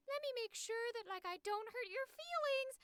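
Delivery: high, sugary pretend concern; hammed-up people-pleaser; mock considerate voice. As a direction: put on a high-pitched, over-careful sweetness. Voices an overly considerate person.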